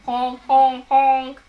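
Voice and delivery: goose honk. Shown as a demonstration. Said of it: "bird that makes that sound is called a goose".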